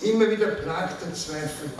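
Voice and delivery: measured recital, openings lifted, line ends sinking; poetry reading. Acted. Poet reading own poem on language and doubt, reflective recital. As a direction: recite it reflectively, pausing between phrases.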